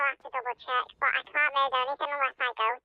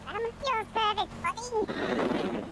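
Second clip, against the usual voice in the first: put-on British accent; 5 semitones higher, much slower than usual. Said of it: "mocking the British accent".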